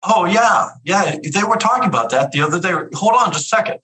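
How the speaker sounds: high, bright front-desk greeting; high receptionist voice, lightly mocking; chirpy receptionist. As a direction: play the eager gatekeeper.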